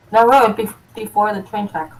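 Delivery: talking through a mouthful of chips; crunching chips. Real, not acted. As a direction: speak while chewing chips. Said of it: "Sorry, I'm eating chips".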